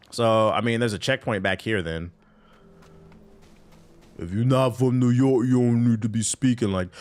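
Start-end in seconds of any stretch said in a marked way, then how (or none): 4.2-6.9 imitating the TikTok kid. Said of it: "When that kid said".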